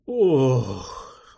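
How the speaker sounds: long dazed moan on oh; drawn-out groan. Acted. A groggy captive coming round, drawn-out moan. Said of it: "протяжно промычал тот".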